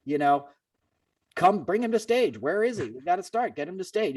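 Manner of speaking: high-pitched mock yell without the volume; urgent, impatient demands, imitated at ordinary volume; retold yelling. Crew rushing the talent rep to get Carter to stage, mock yelling. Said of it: "they're yelling in my ear".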